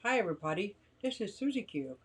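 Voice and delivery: lightly imitating own side-mouthed intro; mock your awkward first-video greeting, mouth pulled sideways. Streamer mimicking her first videos, talking out of side of mouth. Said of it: "I talk out of the side of my mouth".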